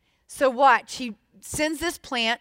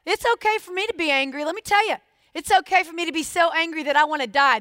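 higher, louder, fast indignant outburst; raw anger; 3 semitones higher, 3 dB louder, faster than usual. Acted. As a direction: blurt it out like a wronged man. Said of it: "in his rawness".

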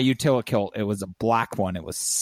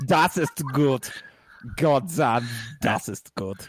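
mock German. Plays at speaking German.

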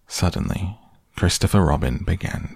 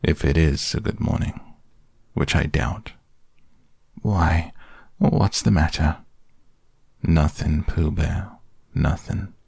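gloomy. Acted. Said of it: "said Eeyore gloomily".

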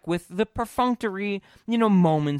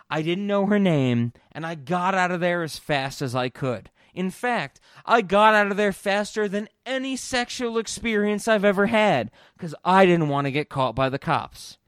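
husband's confession, louder and pushier; louder mock confession; 3 semitones higher, 6 dB louder than usual. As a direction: ham up the boastful admission. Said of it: "He even says".

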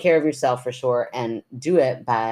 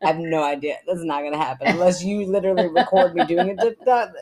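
tipsy and giggling; 5 semitones higher than usual. Real, not acted. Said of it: "I'm a little tipsy".

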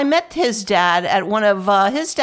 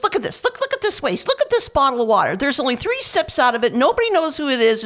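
mock outrage as Bobby; 6 semitones higher than usual. Retelling Bobby complaining about wasted water.

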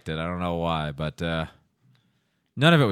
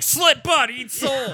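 high shouted villain growl; Baraka voice; 11 semitones higher, much slower than usual. Retold or imitated. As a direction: yell it like a fighting game villain. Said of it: "You're like Baraka, and he's just like".

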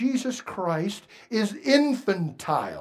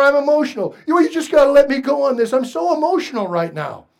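mock emotional; 5 semitones higher, 4 dB louder, faster than usual. Voicing an emotional believer.

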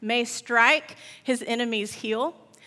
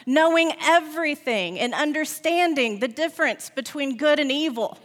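basilisk; 5 semitones higher, 3 dB louder than usual. Acted. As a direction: tempt her like a hissing snake. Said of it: "hissed the snake".

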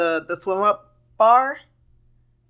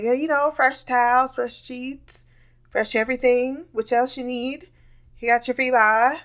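put-on Jamaican accent; 4 semitones higher than usual. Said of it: "I tried to speak a Jamaican accent".

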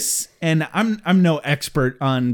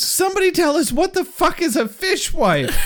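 pitched-up giggling question; high laughing plea; 12 semitones higher than usual. Real, not acted. Asking listeners what a fishwife is, high laughing plea. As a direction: beg the audience through laughter.

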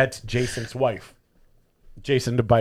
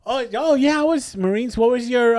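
mock fake veteran; 10 semitones higher than usual. Mocking the fake veteran's answers.

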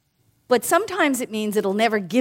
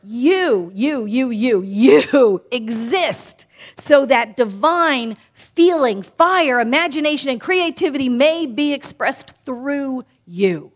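slower still, with a laugh at the start, then rising fervour on fire; solemn repeat; slower than usual. Acted. Minister repeating the quote on request, slow and fervent. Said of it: "You want me to say that again?".

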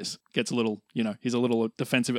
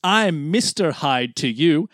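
slow Irish-tinged Scottish villain; Scottish accent; slower than usual. Acted. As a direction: drawl out a Scottish threat. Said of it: "your very Irish Scottish accent there".

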